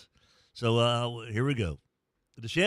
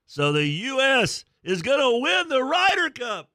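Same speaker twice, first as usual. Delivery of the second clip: higher, louder giddy call; over-the-top excited golf fan; 12 semitones higher, 5 dB louder than usual. Real, not acted. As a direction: blurt it out, carried away by the drive. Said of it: "Am I getting a little too excited".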